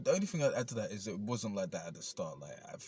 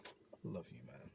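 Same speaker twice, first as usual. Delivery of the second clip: sincere; 4 semitones lower, 7 dB quieter than usual. Retold or imitated. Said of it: "look myself dead in the eye".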